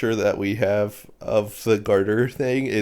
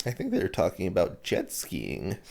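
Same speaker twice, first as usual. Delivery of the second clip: put-on tag naive kid; 3 semitones lower, 8 dB quieter than usual. Listener counters with innocent kid guess.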